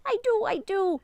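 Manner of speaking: bursting out with a laugh. Real, not acted. Dad recalling the Halloween costumes, laughing.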